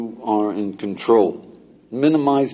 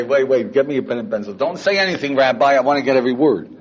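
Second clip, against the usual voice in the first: eager student; 3 semitones higher, 3 dB louder, faster than usual. Acted. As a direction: act out a student desperate for every word.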